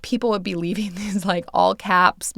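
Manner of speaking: laughing while talking; trying not to laugh; real amusement. Real, not acted. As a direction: let a small laugh slip into the words. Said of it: "maybe I shouldn't laugh".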